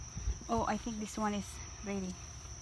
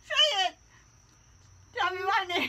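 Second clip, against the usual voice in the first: laughing through stuffed cheeks; mouth full; 8 semitones higher, 6 dB louder than usual. Real, not acted. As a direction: mush the words round marshmallows. Marshmallows in mouth game.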